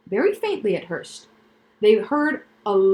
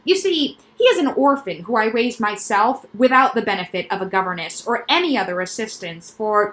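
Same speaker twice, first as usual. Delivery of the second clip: quack doctor voice. Acted. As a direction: pitch the noises like a proud specialist. Doctor character voice.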